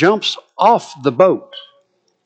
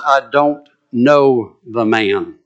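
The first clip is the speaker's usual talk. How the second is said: Peter swearing denial; 3 semitones lower, much slower than usual. Acted. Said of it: "invoke a curse on himself and swear".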